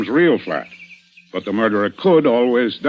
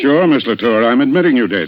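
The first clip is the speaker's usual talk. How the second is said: louder, driving the point home; pressing accusation; 2 semitones higher, 7 dB louder than usual. Acted. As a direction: push the accusation harder, closing in. Inspector pressing accusation on suspect.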